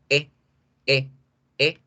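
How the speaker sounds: "E" cut very short. Shown as a demonstration. Teacher repeating the short E. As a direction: say "E" quick and crisp. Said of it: "es supremamente corto".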